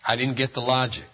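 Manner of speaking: a soft bewildered aside to the apostle; quiet puzzled aside. Retold or imitated. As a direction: murmur it like a private objection to Paul. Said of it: "I always stop and say".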